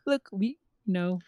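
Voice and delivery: high pleading mock plea; hammed-up desperate ex begging to come back. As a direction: beg like a desperate ex. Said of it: "trying every desperate move".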